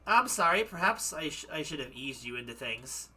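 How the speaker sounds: put-on apologetic madame in light German accent. Madame apologises to her visitor, German accent. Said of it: "gonna freaking go back into German again".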